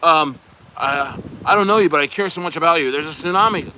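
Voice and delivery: mocking pleading troll. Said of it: "coming on being like".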